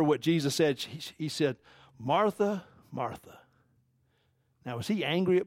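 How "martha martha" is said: tender plea, much softer on the repeat; gentle pleading. Retold or imitated. Jesus to Martha, who is suffering, gently pleading. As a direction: plead softly, letting the second name fall away. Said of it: "He was kinda pleading with her".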